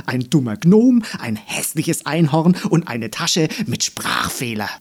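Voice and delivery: bawling dandelion. Acted. Dandelion taunt continues.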